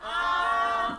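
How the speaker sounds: 아 held long on a high level pitch; first tone. Shown as a demonstration. Teacher has class go as high as possible, level 아. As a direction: place 아 up high and keep it there. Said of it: "올라간다고 생각하시면 돼요".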